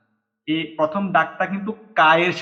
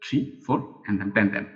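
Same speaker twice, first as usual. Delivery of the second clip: slow soft stroke count; 5 semitones lower, 6 dB quieter, much slower than usual. Shown as a demonstration. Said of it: "writing system one".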